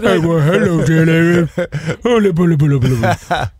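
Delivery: hammed-up cutesy babble; mock sweet talk dissolving into nonsense. Husband hamming up talk to Jennifer, cutesy voice. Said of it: "you guys think I talk cutesy to Jennifer".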